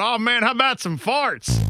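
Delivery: high-pitched mock of an eager co-host; exaggerated high, excited request; Ted. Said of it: "Ted going".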